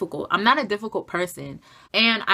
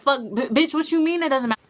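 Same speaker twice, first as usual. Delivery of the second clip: indignant retort; 6 semitones higher, faster than usual. Retold or imitated. Retorting angrily to teacher.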